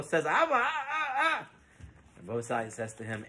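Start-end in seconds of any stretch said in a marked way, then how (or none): 0.2-1.5 high, soft, halting sounds; flustered stammer. Acted. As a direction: stammer timidly at an angry elder. Cowed son-in-law stammers before rabbi.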